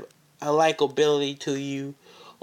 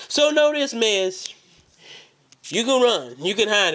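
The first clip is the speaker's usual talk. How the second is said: shouting; 5 semitones higher than usual. Acted. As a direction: yell the warning at him. Calling out rival.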